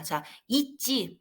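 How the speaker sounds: 있지 said slowly, stress on the last syllable; 있지 drawn out with the final syllable stressed. Shown as a demonstration. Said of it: "강세가 뒤에 있어요". (있지 뒤 음절에 강세를 두고 천천히)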